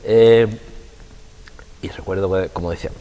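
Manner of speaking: usual speaking voice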